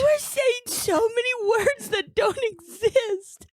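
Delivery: laughing while talking. Real, not acted. Cracking up at his misreadings.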